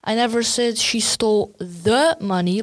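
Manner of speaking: "the" stressed, as in the one special sum; "the" lifted and pressed. Shown as a demonstration. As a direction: lean on "the" before "money". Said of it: "like it was some important piece".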